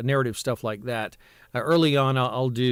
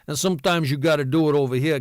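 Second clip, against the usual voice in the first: wise guy; 3 dB louder, faster than usual. Shown as a demonstration. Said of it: "kind of a wise guy kind of thing".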